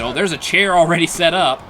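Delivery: ordinary talk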